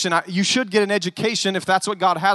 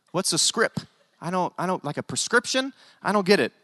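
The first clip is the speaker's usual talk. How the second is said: softer, mock confusion; imitated baffled listeners; 5 dB quieter than usual. Preacher mimicking congregants who don't know slang, mock bafflement. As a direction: play someone lost by the slang, quietly. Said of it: "Some of you white people are like".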